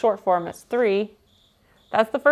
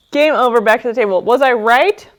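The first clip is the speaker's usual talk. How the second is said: loud urging; 5 dB louder than usual. Real, not acted. Urging the viewer to answer.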